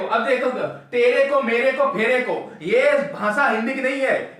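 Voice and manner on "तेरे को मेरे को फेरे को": slightly louder, sneering tapori tone; mock slang voice; mocking street slang. Shown as a demonstration. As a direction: imitate a chhapri saying तेरे को, मेरे को. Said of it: "ये छपरी भाषा है।".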